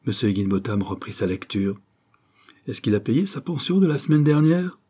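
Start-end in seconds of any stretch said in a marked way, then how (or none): 2.7-4.8 tossed-off question. A narrator's reading. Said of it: "lança-t-il par-dessus son journal".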